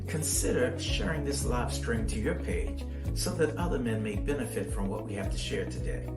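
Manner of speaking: measured promo announcer voice over music; polished live-show bumper read. Acted.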